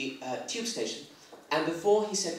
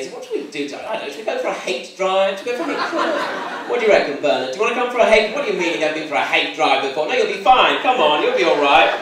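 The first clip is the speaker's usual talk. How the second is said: lads chatting; 4 semitones higher, 6 dB louder, faster than usual. Retold or imitated. Lads planning a hate drive.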